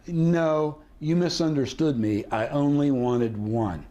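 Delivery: mock-innocent correction, ending slow and deliberate; feigned misunderstanding. Shown as a demonstration. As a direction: correct them, then slow right down on the last phrase. Feigned misunderstanding as negotiating flinch.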